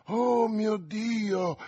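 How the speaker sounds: esclamazione acuta e lenta; allungalo, in alto, come una ragazza impaurita; grido spaventato. A narrator's reading. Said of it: "gridò Ketty". (grido di spavento, acuto e trascinato)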